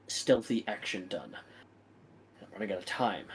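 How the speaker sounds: low, soft, deferential report; humble servant. Acted. Servant reporting failure to his lord, low and meek. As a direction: report the bad news meekly.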